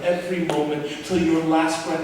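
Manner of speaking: tender plea. Acted. God's voice turns tender.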